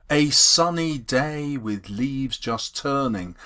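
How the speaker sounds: slow, measured reading of "A sunny day with leaves just turning"; iambic reading. Shown as a demonstration. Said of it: "That is in perfect iambic pentameter".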